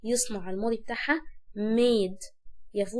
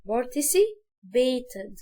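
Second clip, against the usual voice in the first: participated broken into slow parts; syllable by syllable; much slower than usual. Shown as a demonstration. Teacher slowing down participated. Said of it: "نقول الحاجة مقاطع".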